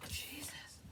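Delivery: real hushed exclamation, unvoiced; overwhelmed whisper. Real, not acted. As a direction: whisper it to yourself, overcome. Overcome by emotion mid-sentence.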